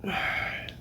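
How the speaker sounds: soft breathy sigh, no voice. Real, not acted. Streamer pulling himself together on live, soft sigh. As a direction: exhale softly to collect yourself. Composing himself after crying.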